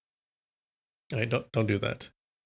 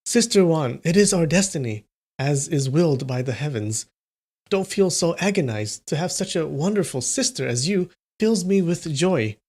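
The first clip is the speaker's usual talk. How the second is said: put-on gently consoling young man; soft consoling; 2 semitones higher than usual. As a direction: comfort her softly as a brother. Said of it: "In a soft voice".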